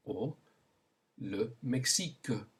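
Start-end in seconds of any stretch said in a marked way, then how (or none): 1.2-2.5 "le Mexique" in French, ending on a k sound; French pronunciation. Shown as a demonstration. Teacher gives learners a country to repeat, French pronunciation. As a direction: model "le Mexique" as mek-SEEK, the French way. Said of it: "Say it".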